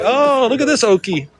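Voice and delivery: high, sneering schoolyard taunt; mock a new kid's country accent; mocking kids. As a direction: jeer like a mean grade-school kid. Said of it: "People were like".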